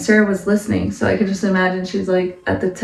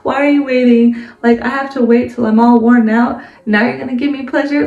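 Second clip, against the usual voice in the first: higher, startled disbelief, mildly hammed; incredulous Sarah; 3 semitones higher than usual. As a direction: gasp out the disbelief of an old woman. Sarah overhears the promise, incredulous.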